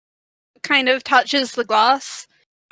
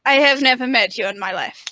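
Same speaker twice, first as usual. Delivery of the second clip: put-on faintly German-accented priestess; a hint of a wobbly German accent; lightly put-on German accent. Priestess denying they have met, light fake German accent. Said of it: "Why is she German?".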